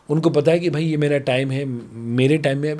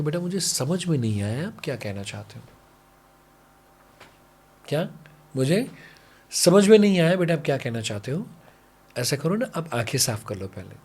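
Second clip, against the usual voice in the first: gentle soothing parent. Retold or imitated. Parent soothing crying child. (नरम, प्यार भरी पिता की आवाज़)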